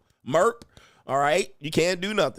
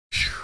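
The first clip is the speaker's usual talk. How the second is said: exaggerated sigh and exhale; post-jog puffing. Man coming in from a jog, mock winded. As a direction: blow out air as if back from a jog. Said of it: "like you just came in from a jog".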